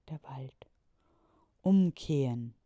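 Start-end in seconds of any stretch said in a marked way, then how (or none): 1.6-2.5 louder, commanding call; loud shout. A narrator's reading. The mayor shouts at the diggers to turn back. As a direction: call out as loud as you can. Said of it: "rief der Bürgermeister so laut er konnte".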